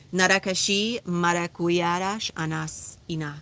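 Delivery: light language. Acted. Closing the meditation with invented-language words, intoned. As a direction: intone the strange syllables slowly.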